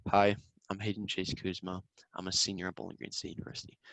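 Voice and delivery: quiet, fast rattled-off introduction; a flat introduction that makes judges tune out; bored, rushed intro. Shown as a demonstration. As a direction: rush through it like reading a form. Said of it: "I'm clocked out before you're even talking".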